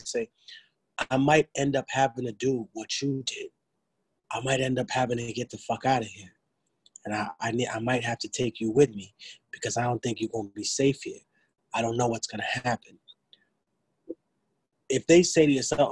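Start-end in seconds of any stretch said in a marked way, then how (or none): 1.1-13.0 gently and quietly, with care; soft reassuring talk. Shown as a demonstration. Gently warning an elderly parent about danger, softly. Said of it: "just talk softly".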